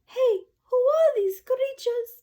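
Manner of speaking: high shrill panicked teacher; teacher on the desk, shrieking in fright; teacher yelling. Acted. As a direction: shriek it at the mice. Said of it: "teachers is yelling".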